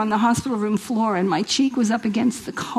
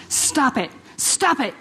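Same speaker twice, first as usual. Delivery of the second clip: doctors yelling; 5 semitones higher, slower than usual. Retold or imitated. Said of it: "the doctors are yelling at her".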